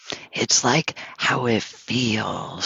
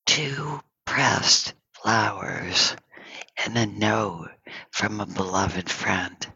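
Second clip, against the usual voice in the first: calm and sweet. Retold or imitated. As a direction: voice a serene master's unhurried reply. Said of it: "very calmly and sweetly".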